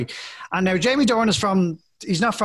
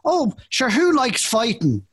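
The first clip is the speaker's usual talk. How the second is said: lightly imitated Irish film heroine, lilting; a hint of mock-Irish leading lady, drawn out; Emily Blunt; 6 semitones higher, slower than usual. Host quoting his favorite trailer line, mock Irish actress. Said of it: "I guess it's Emily Blunt says".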